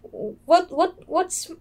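put-on high, eager kid voice; lightly voiced excited kid; excited kid rambling. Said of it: "And the kid was like".

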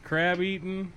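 hyped host introduction voice; announcer intro. Acted. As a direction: introduce them like a show host.

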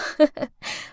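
small breathy chuckle; light chuckle. Acted. Smug chuckle at peace.

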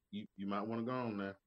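fast, low-key threat; a hint of a menacing Southern man; mock Southern warning. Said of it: "Southern guys tell you".

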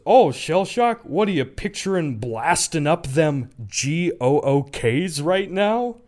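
put-on loud casual old man; hammed-up loud old man quote. Old man's offensive reply retold.

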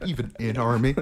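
repeats it through laughter; laughing repeat. Real, not acted. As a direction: savour the line, laughing. One of my favorite lines.

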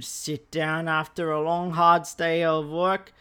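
hammed-up attempt at an Australian accent; botched Aussie accent. Comedian mimicking Aussies after work, botched Australian accent. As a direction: put on a badly missed Australian accent. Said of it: "I don't know what accent that is".

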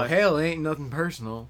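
a hint of a Southern gun, casually; Southern accent. Gun given a voice by the host, light Southern accent. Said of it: "Just a fun accent to do".

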